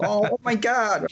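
slow, high mock London gush; London accent. Retrying the London lady's voice, slow high mock London accent. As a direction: stretch it out like a gushing London lady. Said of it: "I can't do a London accent".

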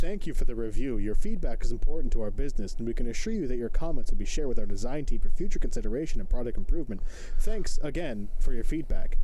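polite scripted company voice; customer service voice. Pretend. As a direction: read it like a customer rep. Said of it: "my customer service voice here".

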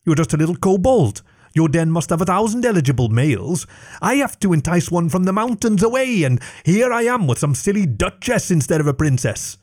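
a dragon sulking to her servant; self-pitying dragon. Acted. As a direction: grumble about bad luck. Dragon complains.

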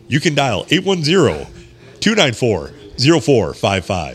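smooth radio DJ read; sexy radio voice. Shown as a demonstration. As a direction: purr the number like late-night radio. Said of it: "in the sexy radio voice".

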